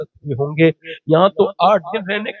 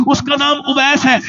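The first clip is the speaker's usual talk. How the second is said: said again higher; 11 semitones higher than usual. Shown as a demonstration. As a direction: repeat the name higher and stronger. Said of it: "ذرا زور سے تو بولو". ("اس کا نام اویس ہے" اونچی آواز میں دوبارہ)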